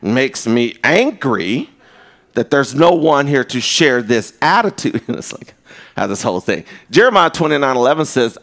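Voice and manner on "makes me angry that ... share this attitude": deliberate, low grumble after a punched first word; slow, hammed-up sulk; mock indignant self-talk. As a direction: grumble to yourself in measured, mock annoyance. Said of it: "then I talk to myself".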